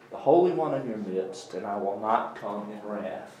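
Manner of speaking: expressive reading of a prophet's verse, swelling then hushed; scripture reading. Acted. Reading God's words to the class, heartfelt scripture reading. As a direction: read it as God's personal lament, rising to a plea then softening.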